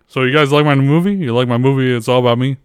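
a hint of a famous singer; impression of a famous singer. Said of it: "So this is a famous singer".

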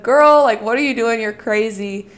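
joking mock scolding. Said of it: "you say that in a joking way".

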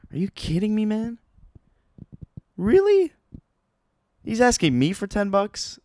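incredulous squeal on Really, rising to a peak; outraged disbelief. Retold or imitated. Outrage at being charged ten more.

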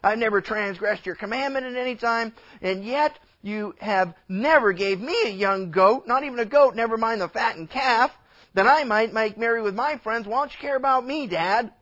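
lightly acted complaint to Dad; mildly indignant, pressing your case; a touch of hurt protest; aggrieved son. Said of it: "The son saying".

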